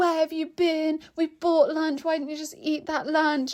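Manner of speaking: put-on man's shout, high, scolding tone. Retelling how the man running the store shouted at the speaker: imitating a man shouting. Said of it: "the man who was running the store was shouting at me like".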